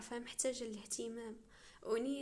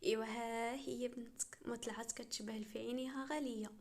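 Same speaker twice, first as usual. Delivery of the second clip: mildly goading, stretched out; needling. Acted. Wife winding up her husband about their daughter's looks, needling. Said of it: "وتقلي ليه في السم".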